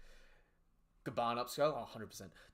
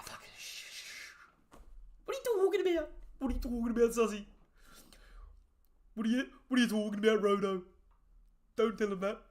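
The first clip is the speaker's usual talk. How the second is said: hushing; 4 semitones higher, faster than usual. Retold or imitated. Gaban hushing in retold scene.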